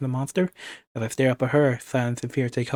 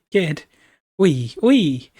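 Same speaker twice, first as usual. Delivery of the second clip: louder, higher exultant cry; gleeful French villain; 4 semitones higher, 7 dB louder, much slower than usual. Acted. Villain celebrating the monster's defeat, gleeful French accent. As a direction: cheer in triumph with a French accent.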